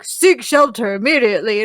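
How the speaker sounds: lightly imitated emergency warning; siren announcement. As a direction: announce it like an alert system. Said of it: "when they were like".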